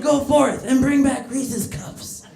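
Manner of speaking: slow, grand royal command; hammed-up monarch ordering a minion about; mock ruler. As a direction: proclaim it slowly, like a pretend ruler. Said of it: "He could be my minion".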